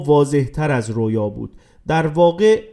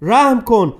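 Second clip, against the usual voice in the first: raised, pleading cry to God; 5 semitones higher than usual. Acted. Falling boy begging God for mercy, raised plea. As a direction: beg for mercy, high and urgent. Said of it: "بیلی فریاد زد".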